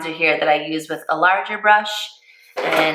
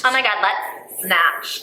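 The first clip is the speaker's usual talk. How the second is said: put-on valley girl; 3 semitones higher, slower than usual. Playing along with valley girl talk.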